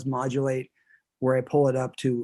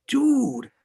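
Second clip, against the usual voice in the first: put-on Boston accent; 6 semitones higher, 4 dB louder than usual. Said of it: "it's like".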